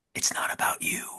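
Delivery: soft, hushed whisper, close in. Telling a scene where somebody whispers in her ear: whispered. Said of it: "somebody in a funny accent whispers in her ear".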